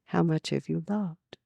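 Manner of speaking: soft, smiling question; smiling gently. Retold or imitated. Jesus gently answering the protesting young man, smiling. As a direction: ask it kindly, with a small smile. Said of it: "Jesus smiled at him a little".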